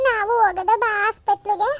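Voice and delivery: whimpering little plea; tearful pleading. Acted. Child begs aunt to take him to hospital, tearful. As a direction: beg through tears to go along.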